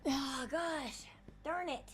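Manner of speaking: hiccuping while talking. Real, not acted. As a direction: let hiccups catch the words. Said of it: "I can't get rid of these hiccups".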